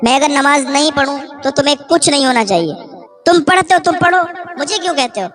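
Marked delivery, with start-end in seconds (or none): 3.2-5.3 mocking. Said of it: "میں مذاق کرتی تھی".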